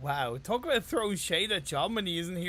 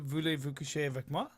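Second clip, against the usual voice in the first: mock French; 4 semitones lower, 4 dB quieter than usual. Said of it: "How about".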